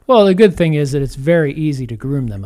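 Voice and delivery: dry sarcastic remark. Acted. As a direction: say it with obvious sarcasm.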